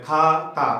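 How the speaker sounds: "খা" and "তা" as two distinct beats; two-syllable demonstration. Shown as a demonstration. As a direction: split it clearly, "খা-তা". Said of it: "খাতাটা ডাইসিলেবিকে চলে আসবে". ("খা-তা" দুই ভাগে ভেঙে উচ্চারণ)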